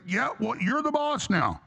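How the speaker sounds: high, slow, deferential mock voice; bowing to MacArthur. Defeated Japanese to MacArthur, high and slow, humbly deferential. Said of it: "bowed down to MacArthur".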